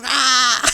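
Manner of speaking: low drawn-out gremlin "ah"; gremlin cry. Pretend. Little gremlin sneaking away, playful gremlin cry. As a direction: croak out a playful creature cry.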